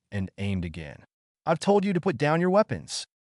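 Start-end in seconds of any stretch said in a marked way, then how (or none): 1.5-3.1 an understated angry officer's roar, higher. Acted. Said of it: "roared angrily".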